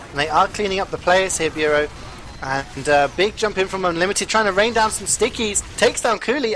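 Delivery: rising hype as the fights break out; live play-by-play. Acted. Caster hypes the Bureau push to viewers, excited play-by-play.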